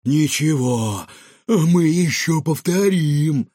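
slow, loud defiant threat; defiant bully. A narrator's reading. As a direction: promise it with spite. Girl vows revenge.

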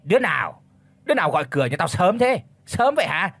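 mild shaky call toward the gate; calling out to cover a fright; shaky loud call. Acted. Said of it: "Lão run run giọng nói lớn".

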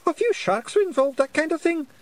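a tiny Feegle boasting; squeaky Feegle. A narrator's reading. Medium-sized Jock speaking.

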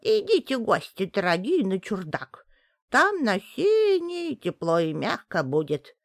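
falsely kind witch voice; sweetly fake witch. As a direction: lure them in sweetly. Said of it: "будто подобрела".

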